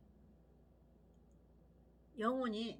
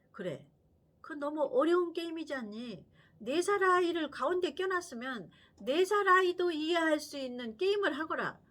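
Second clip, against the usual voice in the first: a light, louder scolding grandma; mild hint of a grandmother scolding her son; grandmother siding; 5 semitones higher, 6 dB louder than usual. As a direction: gently chide the parents on the child's behalf.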